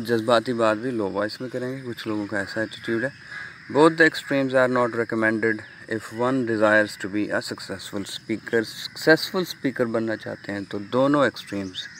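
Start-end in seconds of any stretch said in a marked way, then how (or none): 3.7-8.6 slow, deliberate reading of the slide. Acted. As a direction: read each phrase out slowly for students. Reads English slide text. (धीमे, ठहर-ठहर कर slide पढ़ना)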